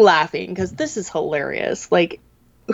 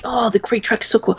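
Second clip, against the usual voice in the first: hushed dad voice; 4 semitones higher than usual. Retold or imitated. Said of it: "I'm assuming, like".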